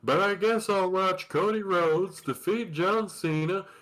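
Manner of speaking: lightly voiced Texan dad grumbling; a hint of grumpy propane salesman; Hank Hill voice. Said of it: "Hank Hill at a WrestleMania".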